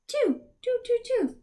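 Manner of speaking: high delighted count; excited count. Real, not acted. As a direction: announce the count with joy. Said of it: "how many syllables".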